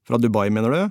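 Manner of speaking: ordinary delivery, nothing marked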